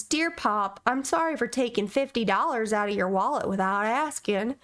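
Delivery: put-on lightly Southern-accented letter reading. Son apologizing to his pop in a letter, Southern accent. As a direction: read it with a touch of Southern twang. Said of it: "he went Southern there for a second".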